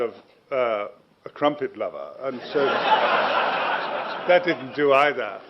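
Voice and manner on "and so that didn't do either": laughing. Real, not acted. Chuckling through his failure story.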